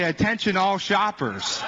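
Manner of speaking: lightly imitated store announcer, drawn out; intercom announcement. Preacher retelling his call to shoppers, mock intercom announcement. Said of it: "how to use the intercom".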